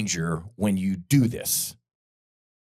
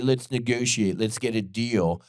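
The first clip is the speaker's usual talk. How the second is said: mock negotiator. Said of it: "the second you say".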